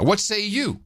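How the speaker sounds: mock archaic phrase. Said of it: "I'm hearing this coming up now".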